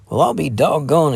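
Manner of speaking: be caught completely off guard; surprised exclamation. Acted. Lad startled by the sharp reply, surprised exclaim. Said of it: "exclaimed the young feller".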